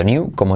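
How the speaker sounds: "knew" as "nyoo"; "knew" said "niu"; Y-glide variant. Shown as a demonstration. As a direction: slip a Y after the N in "knew". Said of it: "también se puede decir".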